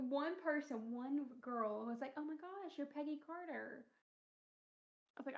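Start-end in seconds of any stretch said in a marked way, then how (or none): 2.2-3.8 high, soft fan gasp; mock starstruck recognition; retold excited recognition. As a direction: imitate a thrilled fan, pitched up but quiet. Retold girl recognizing the costume.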